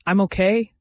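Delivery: hoarse, rough-throated reassurance. Acted. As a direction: rasp it out gently. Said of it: "Marcus said hoarsely".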